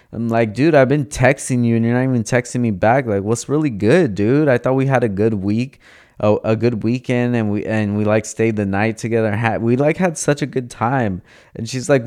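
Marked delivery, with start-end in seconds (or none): 0.6-11.2 animated retold complaint, lifted and pressing; acted-out protest, lightly heated; mildly aggrieved. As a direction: make your case like a hurt, exasperated date. Retold confrontation with the woman.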